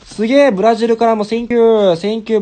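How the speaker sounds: high, loud amazed cry; thrilled at the surprise; delighted shout of surprise. Real, not acted. Amazed at viewer from Brazil.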